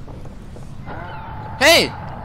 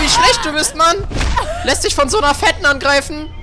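high mocking second voice, much higher; a sneering voice in his head, pitched up; taunting alter ego; 11 semitones higher than usual. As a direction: jeer at him like a cheeky sidekick.

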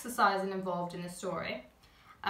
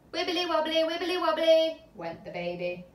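higher, louder bouncy sing-song; playful refrain; 7 semitones higher, 6 dB louder than usual. A narrator's reading. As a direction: wobble it like a jelly baby.

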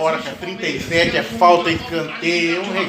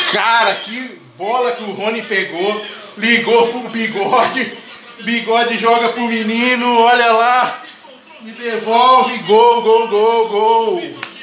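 laughing goal recap; 3 semitones higher, slower than usual. Real, not acted. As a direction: relive the goal through laughter. (rindo e gritando gol)

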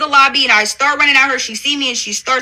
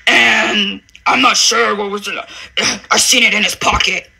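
mock dreamy storytelling; 5 semitones lower than usual. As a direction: drag it out like she's gazing off, mocking. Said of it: "And then she looks off".

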